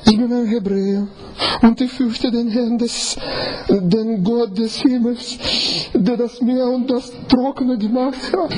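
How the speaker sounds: a confident proclamation of faith; proud declaration. Shown as a demonstration. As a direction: announce it boldly, head held high. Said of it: "mit welchem Ton?".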